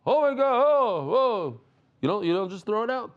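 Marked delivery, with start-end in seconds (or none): 0.0-1.6 high, loud mock gushing exclamation; hammed-up outburst, tossing the words out; careless exclaiming. Teacher mimicking people who throw out the word for fun, hammed-up exclaiming. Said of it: "throw out that word for fun".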